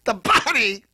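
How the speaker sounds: "The Body?" repeated slowly with a scoffing laugh; mocking echo. Real, not acted. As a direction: scoff at the nickname "The Body?", drawn out in disbelief.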